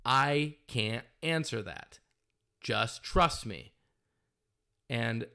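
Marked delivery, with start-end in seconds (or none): 0.0-3.7 slow, firm refusal. Retold or imitated. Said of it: "slammed his hands on his table and said".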